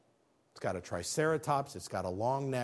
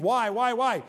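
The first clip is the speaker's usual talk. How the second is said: crying out; 9 semitones higher, 6 dB louder than usual. Acted. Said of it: "he's crying out to God saying".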